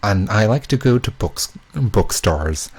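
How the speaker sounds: shaky try at an American accent. Shown as a demonstration. Proving she can do an American accent, a shaky try at American accent. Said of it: "Now I've gotta prove that I can do one".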